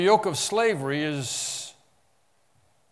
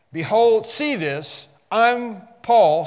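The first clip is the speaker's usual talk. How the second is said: "Behold" and "Paul" called out loud and high; emphatic proclamation; 6 semitones higher, 8 dB louder, slower than usual. Acted. Preacher voicing Paul to the Galatians, loud and emphatic. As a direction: announce yourself like an apostle. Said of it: "when you say it like that".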